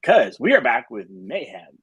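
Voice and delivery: a light stab at a radio-host voice. Pretend. Host opening Mayhem Monday for the DJ, radio voice. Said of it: "trying to get that radio voice".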